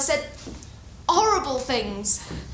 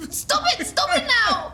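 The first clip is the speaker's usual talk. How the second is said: urgent plea; 10 semitones higher, slower than usual. Acted. Begging him to stop.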